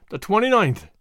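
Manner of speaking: pensive, considered remark; thoughtful. Acted. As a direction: muse on the date. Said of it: "he said thoughtfully".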